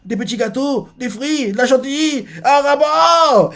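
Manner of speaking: de plus en plus haut, jusqu'à un cri lent; s'emballer devant chaque dessert; extase gourmande. Retold or imitated. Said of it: "elle fait". (Bonnie s'extasie, de plus en plus aiguë)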